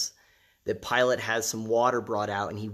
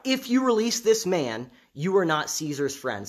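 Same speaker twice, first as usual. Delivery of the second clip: crowd crying out; 5 semitones higher, 3 dB louder than usual. Retold or imitated. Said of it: "the Jews cried out".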